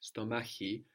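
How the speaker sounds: "stomachi" with a soft ch before the i. Shown as a demonstration. Teacher showing learners the Greek sound, soft ch in "stomachi". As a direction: say "stomachi", softening the ch before the final i. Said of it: "and then hard when it has".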